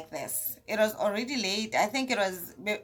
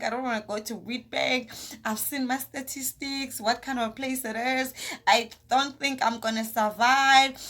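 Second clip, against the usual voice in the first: pleading prayer; 2 semitones higher than usual. Retold or imitated. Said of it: "I'm crying".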